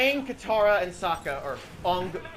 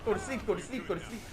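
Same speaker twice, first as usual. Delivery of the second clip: mock lullaby; 6 dB quieter, faster than usual. Parodying Katara pushing soldier.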